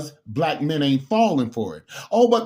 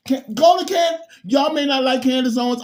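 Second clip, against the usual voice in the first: high, loud urging; fired-up shout of a recommendation; excited shout; 6 semitones higher, 3 dB louder than usual. Real, not acted. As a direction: call out to the viewers. Urging viewers to watch Candace.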